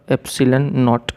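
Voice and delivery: एप्सिलॉन नॉट said as ep-si-lun not; showing pronunciation. Shown as a demonstration. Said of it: "pronunciation दिया है उसका". (एप्सिलॉन नॉट को "एप्सिलन नॉट" जैसा बोलें)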